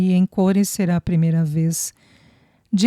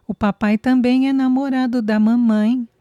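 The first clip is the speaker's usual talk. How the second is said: put-on higher, guarded little girl; suspicious child; 5 semitones higher than usual. Little girl warning the stranger, suspicious child voice. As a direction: tell him with childish suspicion. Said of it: "disse a menina com desconfiança".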